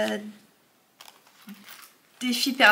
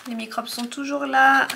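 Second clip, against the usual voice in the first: blocked nose; 2 semitones higher, 4 dB louder than usual. Real, not acted. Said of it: "je parle du nez".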